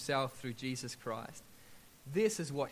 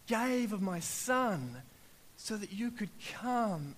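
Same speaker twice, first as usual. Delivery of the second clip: God speaking; 6 semitones higher, slower than usual. Acted. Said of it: "And he's like".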